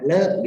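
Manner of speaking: "le" short and toneless; a quick, light "le" with no tone; short neutral tone. Shown as a demonstration. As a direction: clip "le" short, unstressed. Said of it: "pendek ya".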